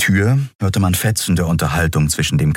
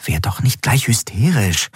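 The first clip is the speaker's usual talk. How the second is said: ordinary delivery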